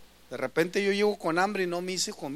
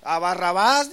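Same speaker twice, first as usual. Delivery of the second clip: crowd answering; 7 dB louder than usual. Retold or imitated.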